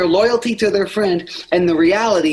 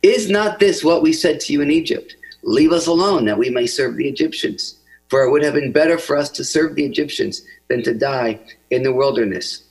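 a lightly raised Bible reading voice; scripture reading; 2 semitones higher than usual. Acted. Pastor reading Exodus to the congregation, earnest reading. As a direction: read the passage aloud with feeling.

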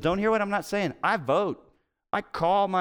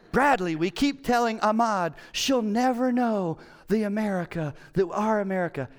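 lightly voiced elderly mother, higher; a hint of his mother pleading; quoting his mom; 5 semitones higher than usual. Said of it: "they keep saying".

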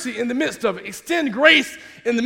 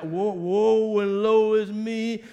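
slow, drawn-out mock woe; exaggerated slow lament; mock complaining; slower than usual. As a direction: draw the words out like a self-pitying complainer. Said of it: "all we can do is complain".

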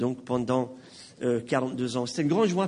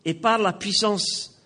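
earnest, measured prayer with firm openings; public prayer. Real, not acted. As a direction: pray aloud for the congregation in spaced phrases. Leads the congregation in prayer. (prière publique, fervente et posée)

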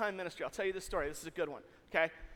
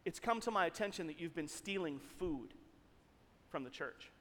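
grave accusation; 5 semitones lower, 8 dB quieter than usual. Retold or imitated. Boss repeats grave accusation, acted.

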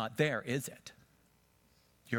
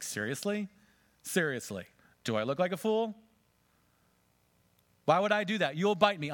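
put-on incredulous girl; 7 semitones higher, 4 dB louder than usual. A narrator's reading. Girl scoffs at the snake.

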